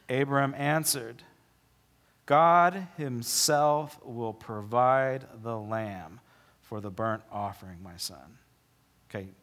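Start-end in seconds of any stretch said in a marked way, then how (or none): 2.3-8.4 slow, tender reply. Acted. Abraham answering his son.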